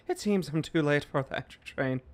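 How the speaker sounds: put-on Irish accent, running straight through; Tom Mulrooney. Streamer rereading a chat comment as another Irishman, Irish accent. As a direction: read it as a mock Irishman. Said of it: "That was Tom Mulrooney".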